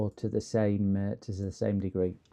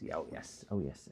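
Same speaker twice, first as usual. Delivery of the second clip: posh voice; 6 semitones lower, 13 dB quieter than usual. Pretend. Posh voice again.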